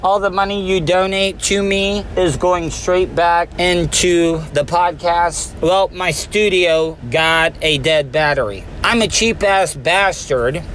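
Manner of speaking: talking around a wad of chew; words slurred by a fat dip; lip full of dip. Real, not acted. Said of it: "I had a dip in my mouth".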